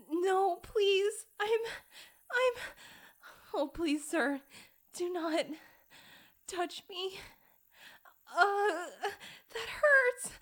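high, loud, broken pleading; panicked begging. Acted. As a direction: stammer out desperate pleas.

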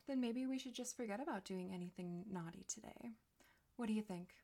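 hushed, intimate, teasing whisper; seductive whisper. Acted. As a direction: breathe it close to the mic.

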